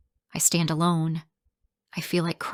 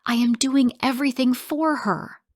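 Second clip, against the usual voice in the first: high, loud defensive shout; 7 semitones higher, 4 dB louder than usual. Acted. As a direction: bark it back in defence. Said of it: "He shouts".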